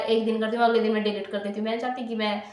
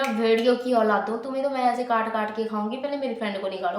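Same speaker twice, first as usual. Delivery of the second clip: retold angry outburst. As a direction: tear into them like a cornered tigress. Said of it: "भौंकने के बाद". (गुस्से में चिल्लाकर डाँटना)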